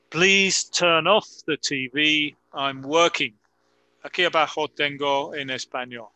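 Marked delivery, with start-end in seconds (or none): 0.1-3.4 reading slowly. Shown as a demonstration. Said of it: "Voy a leer los ejemplos".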